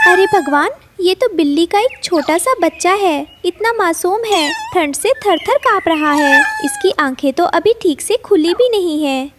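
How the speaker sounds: lightly voiced worry over a helpless little one; concerned mother bird. Mother bird finds a shivering abandoned kitten, concerned.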